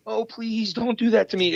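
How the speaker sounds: high, whimpering mock plea; mock pleading. Podcaster mocks the reply he refused to give, mock pleading.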